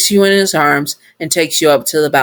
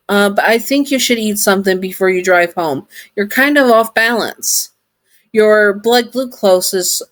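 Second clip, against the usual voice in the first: robot voice; 5 semitones higher than usual. Acted. Sun robot voiced in story.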